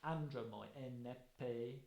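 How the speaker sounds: slow, measured opening of the Odyssey; Greek verse recital. Shown as a demonstration. Lecturer comparing Homer to Virgil, slow recital. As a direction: chant it in hexameter rhythm. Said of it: "First line of the Odyssey".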